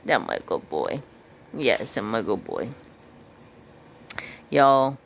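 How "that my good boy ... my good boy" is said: a hint of a lower, cooing voice; low dog praise. Real, not acted. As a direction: lightly rumble praise to the dog.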